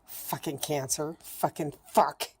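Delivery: bitter, frustrated cursing; fed-up angry swearing; real anger. Real, not acted. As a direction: curse the illness, slowing down on the last words. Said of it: "And I'm angry".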